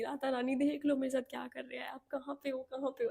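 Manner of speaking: mock tearful plea. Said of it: "ऐसे कर करके मैं पूरा रोती थी".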